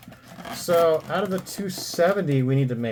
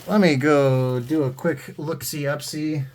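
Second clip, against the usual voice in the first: playful drawl; 3 semitones higher, slower than usual. Pretend. Playful silly announcement of price lookup.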